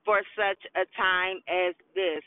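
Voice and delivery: talking around a dental retainer; retainer in mouth. Real, not acted. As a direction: speak with a retainer in. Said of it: "I have my retainer in my mouth".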